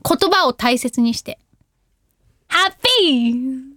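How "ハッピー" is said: slow, careful "ハッピー" with every sound held; heartfelt happy. Shown as a demonstration. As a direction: say "ハッピー" gently, treasuring the word. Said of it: "もっと幸せな気持ちで、言葉を大切にして".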